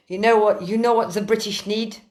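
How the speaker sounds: put-on, rough French accent; bad French accent. Quoting Jean-Yves on what Britain needs, in a bad French accent. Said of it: "I'm doing a shit French accent here".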